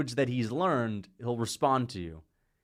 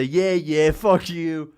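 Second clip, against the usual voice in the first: salty shove-off; 2 semitones higher, 6 dB louder, much slower than usual. Retold or imitated.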